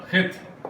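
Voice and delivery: خط breathed out, no voice; unvoiced خط; letter name Khet. Shown as a demonstration. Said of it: "یہ خط بن جائے گا".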